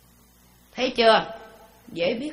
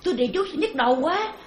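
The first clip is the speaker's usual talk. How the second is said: mock crying out; 3 semitones higher, faster than usual. Preacher mimics a practitioner blaming the mantra, mock outcry. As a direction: imitate someone wailing about a headache. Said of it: "La lên".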